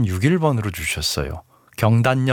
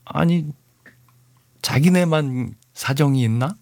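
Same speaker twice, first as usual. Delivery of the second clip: indignant; 4 semitones higher than usual. Real, not acted. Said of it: "좀 화가 났어요".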